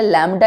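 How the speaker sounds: "लैम्डा" in two syllables, lam then daa; pronunciation of lambda. Shown as a demonstration. Teacher naming the wavelength sign for students, "लैम्डा" said lam-daa. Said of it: "इसको pronounce करते हैं".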